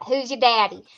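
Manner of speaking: imitating a kid's Southern accent on a cheeky question; a lightly mimicked Southern kid's accent; imitated kid's Southern drawl. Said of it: "it came out just like that".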